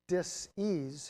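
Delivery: "dis-ease" drawn out in two separate parts; split word. Shown as a demonstration. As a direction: break "dis-ease" apart, leaning on each half. Splits the word to show meaning.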